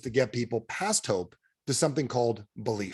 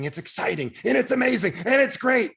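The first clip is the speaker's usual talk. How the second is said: high-pitched imitation of an excited pitch; put-on gushing enthusiasm; mock hype; 10 semitones higher, 4 dB louder than usual. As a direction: hype each phrase like an eager recruiter. Mimics recruiters hyping the opportunity.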